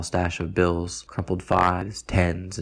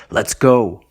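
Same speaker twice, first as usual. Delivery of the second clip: loud, higher-pitched rallying shout; excited yell; 5 semitones higher, 8 dB louder than usual. A narrator's reading. Roman slaps the van's hood to get going, yelling. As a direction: yell it out to get everyone moving. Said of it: "slaps the hood of the van and yells".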